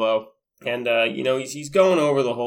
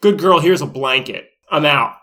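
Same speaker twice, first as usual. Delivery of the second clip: louder brash mock sign-off; cocky doctor sign-off; 7 dB louder than usual. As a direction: toss it off loudly like a cocky doctor leaving. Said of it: "he's like".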